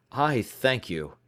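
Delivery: put-on worried young client explaining; young visitor. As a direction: voice the anxious visitor. Openshaw's dialogue voice.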